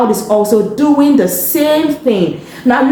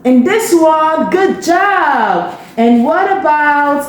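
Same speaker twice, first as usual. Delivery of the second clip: mildly amazed, affirming teacher; cheering on a child. Acted. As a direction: praise a little pupil, stretching the words. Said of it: "words of affirmation to cheer".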